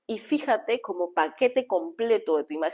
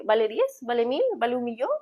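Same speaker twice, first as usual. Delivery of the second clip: sarcastic rising questions; 3 semitones higher than usual. Shown as a demonstration. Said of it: "yo he utilizado la sensación de ser sarcástica".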